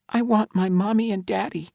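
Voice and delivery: put-on high, small child's voice; a frightened five-year-old admitting fear; scared little girl. A narrator's reading.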